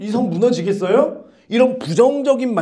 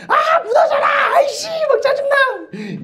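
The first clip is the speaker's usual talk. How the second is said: much higher, laughing mock yell; whiny yell; slower than usual. Preacher mimics Israelites yelling at the wall, high mock whine. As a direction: shout it like a fed-up kid.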